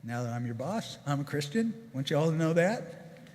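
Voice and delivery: hammed-up boss laying down the law; mock boss announcement. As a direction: announce it like the new sheriff in town. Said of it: "stood up in front of the whole plant and said".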